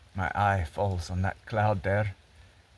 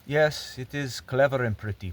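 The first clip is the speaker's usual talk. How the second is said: higher, louder voice of the reading public; admiring public; 4 semitones higher, 4 dB louder than usual. Acted. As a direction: put on the readers' approving voice, pitched up. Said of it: "the public reads it and they say".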